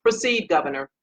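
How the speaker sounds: a light hint of Obama's measured, formal delivery; lightly voiced Obama calling on the governor. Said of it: "in my forty-five voice, I'm sorry, my forty-four voice".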